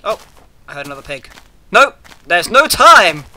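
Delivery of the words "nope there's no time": loud panicked cry; panicked shout. Real, not acted. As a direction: yell it in a hurry. Fleeing in game, panicking.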